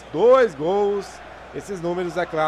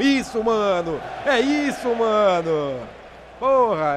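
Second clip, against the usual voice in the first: excited cheer; 3 semitones higher, slower than usual. Real, not acted. Team defends well.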